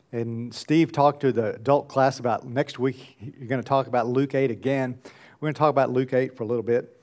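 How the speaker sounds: usual speaking voice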